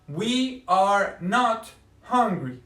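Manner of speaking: slow, deliberate We are not hungry; stress on not. Shown as a demonstration. Teacher modeling the negative slowly for her class. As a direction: spell out not slowly for students. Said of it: "después del verbo to be va a ir el negativo not".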